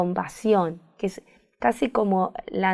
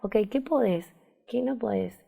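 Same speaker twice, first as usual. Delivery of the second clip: soft, gentle questions fading softer; a tender inner voice, much softer; compassionate voice; 5 dB quieter than usual. Shown as a demonstration. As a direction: ask kindly, almost under the breath. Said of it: "la voz compasiva es".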